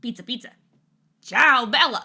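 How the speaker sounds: little Italian mascot voice; playful squeaky Italian-mascot impression; squeaky mascot catchphrase. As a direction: toss out a slogan as the squeaky pizza guy. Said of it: "the way you say pizza".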